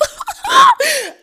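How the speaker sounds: loud, high-pitched shriek of laughter. Retold or imitated. Patient reacting to blood clot news, high shrieking laugh. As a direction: let out a piercing laughing shriek.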